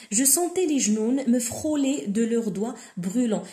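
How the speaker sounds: slow, careful reading of a literary passage; reading aloud. Shown as a demonstration. Teacher reading the novel to students, slow and deliberate. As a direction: read each word slowly for the class. Teacher reads the French text.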